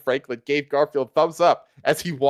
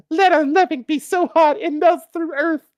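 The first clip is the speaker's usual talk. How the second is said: much higher, hammed-up falsetto of desire; searing desire; 3 dB louder than usual. A narrator's reading. Lady Liberty tempting Garfield, hammed-up high falsetto. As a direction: purr it in a high mock seductive voice. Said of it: "said Lady Liberty".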